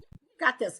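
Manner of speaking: husband's hushed reassurance, whispered; retold whisper. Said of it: "And he was just like".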